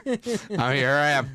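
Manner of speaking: announcing an arrival. Retold or imitated. Diner walking in unrecognized, mock-grand announcement. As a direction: play the big shot arriving. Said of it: "I'll walk in and go".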